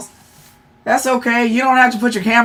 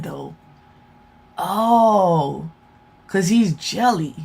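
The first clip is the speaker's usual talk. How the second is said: low-key, much softer aside; retold private thought; 3 semitones lower, 6 dB quieter than usual. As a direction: think it aloud under your voice, lower and quieter. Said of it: "and I was like".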